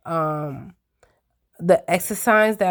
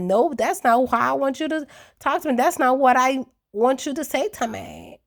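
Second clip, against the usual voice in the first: raised pitch, whiny mock complaint; higher mocking Lindsay; 6 semitones higher than usual. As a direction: mimic her high-pitched complaint. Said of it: "she like".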